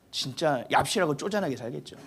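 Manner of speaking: whispered aside; hushed, sneering whisper. Real, not acted. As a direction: drop to a sly whisper. Whispered jab.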